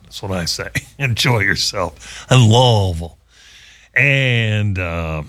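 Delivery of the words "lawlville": Louisville slurred into LAWL-vul; dumbed-down local pronunciation. Shown as a demonstration. Host mocking the dumb down thing, Louisville as LAWL-vul. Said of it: "do that dumb down thing".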